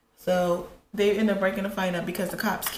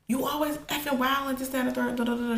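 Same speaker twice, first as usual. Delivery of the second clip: higher-pitched imitation of someone ranting; mock angry ranting; 4 semitones higher, faster than usual. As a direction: mimic an in-your-face rant, trailing into da-da-da. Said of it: "She's, like, choking me".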